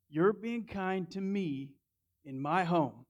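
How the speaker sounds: sarcastically throwing the words back, slowly; mock sarcastic. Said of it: "So let me get this straight".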